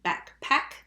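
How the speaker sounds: "backpack" slowly, as two clear beats, back-pack; split into syllables. Shown as a demonstration. Teacher asking for the second syllable, "backpack" slowly split. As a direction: stretch "backpack" so each syllable stands apart. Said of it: "what's the second syllable".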